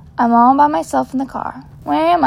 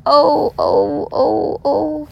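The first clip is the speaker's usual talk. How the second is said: woman moaning; 3 semitones higher, much slower than usual. Acted. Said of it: "The woman moans again".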